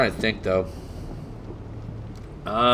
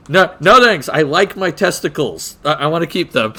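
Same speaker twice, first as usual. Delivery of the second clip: loud, higher, quick no thanks; alarmed refusal; 4 semitones higher, 4 dB louder than usual. Retold or imitated. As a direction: back off in mock alarm. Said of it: "And he goes".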